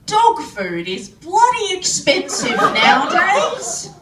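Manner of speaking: high, indignant impression of Dad; imitating Dad. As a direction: complain loudly as an exasperated country dad. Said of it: "Dad said".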